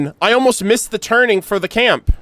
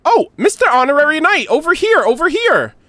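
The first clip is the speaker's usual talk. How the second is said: put-on higher, eager child calling out; lightly voiced little girl; 7 semitones higher than usual. Klee calling the knight over, a touch higher and eager. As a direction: call to him like an excited little kid.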